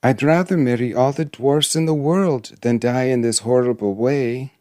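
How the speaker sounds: mildly desperate princess; pleading cry. Acted. Princess bargains with the dwarf for her life, pleading. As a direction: plead with a touch of alarm, pitch lifted. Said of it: "cried the princess, clasping her hands".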